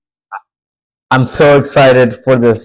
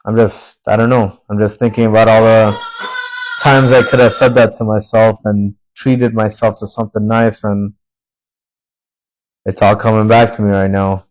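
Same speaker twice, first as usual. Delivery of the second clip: getting emotional. Real, not acted. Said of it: "why am I getting emotional now?".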